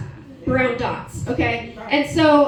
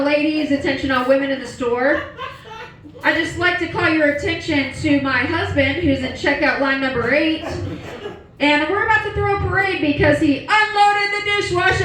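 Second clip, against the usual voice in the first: mock store announcement; 3 semitones higher than usual. Woman announcing her husband's feat to shoppers, mock-grand announcement. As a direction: proclaim it to the whole store.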